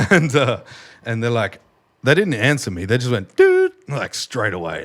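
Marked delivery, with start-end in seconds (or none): 3.4-3.7 mock loud greeting. Staff answering the intercom.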